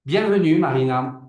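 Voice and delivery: excited welcome. Real, not acted. Host warmly welcomes guest.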